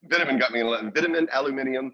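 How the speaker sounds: "vitamin" with short first vowel, "aluminium" with its extra syllable; British pronunciation. Shown as a demonstration. Naming words that caused trouble at school, British pronunciation of "aluminium". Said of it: "those are the words that got me".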